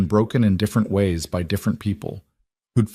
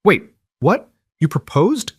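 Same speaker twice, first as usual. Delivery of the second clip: high, louder burst of amazed questions; excited surprise; 9 semitones higher, 4 dB louder than usual. A narrator's reading. Riley jumping up at news of the proposal, excitedly surprised. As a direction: blurt it out, astonished and thrilled.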